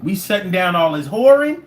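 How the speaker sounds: a gleeful dictator laying down the law; Castro impression. Castro to the world, mock decree. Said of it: "Castro was like".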